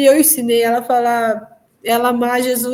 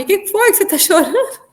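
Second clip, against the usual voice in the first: much higher, incredulous imitation of a doctor; puzzled questioning; 8 semitones higher than usual. Doctor asking crying mother what is wrong, puzzled questioning. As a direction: question in a high, baffled voice.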